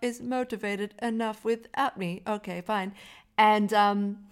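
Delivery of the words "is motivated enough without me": high, loud, slow mock pomposity; mock villain speech. Mocking villain's first scene, slow and high. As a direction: ham up the weird rich guy. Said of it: "when he was like".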